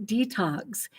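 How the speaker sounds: the unwelcome guest answers "Detox", soft and rising; quiet detox knock. Retold or imitated. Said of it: "And it'll say".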